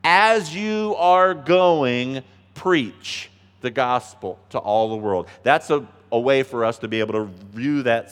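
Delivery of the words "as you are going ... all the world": drawn-out rephrasing that lands on preach; emphasis on preach. Shown as a demonstration. Preacher rereading verse to church, slowly stressing preach. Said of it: "The emphasis is on the word".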